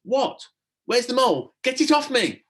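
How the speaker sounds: high, loud startled yelps; a boy jolting out of a mole nightmare; startled, confused and scared; half-asleep panic. A narrator's reading.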